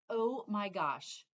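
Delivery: slow, drawn-out gushing oh my gosh. Real, not acted. Raving to viewers about a favourite stitcher, drawn-out gush. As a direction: stretch it out in awe.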